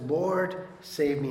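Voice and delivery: loud desperate "Lord, save me"; crying out. Acted. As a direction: call out like a sinking man. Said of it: "Peter cries out and says".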